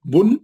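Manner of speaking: teacher sounding out بن; sounded-out syllable. Shown as a demonstration. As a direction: sound out بن clearly for the class. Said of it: "کیسا یہ، یہ،".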